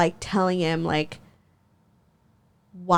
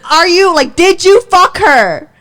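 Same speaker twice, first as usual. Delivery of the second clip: retold demand; 7 semitones higher, 6 dB louder than usual. Retold confrontation, louder.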